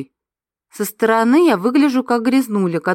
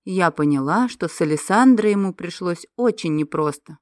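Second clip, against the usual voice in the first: ordinary delivery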